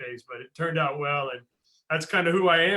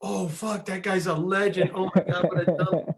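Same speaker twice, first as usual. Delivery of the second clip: retold panic; 4 semitones higher, 6 dB louder than usual. Panicking after looking him up.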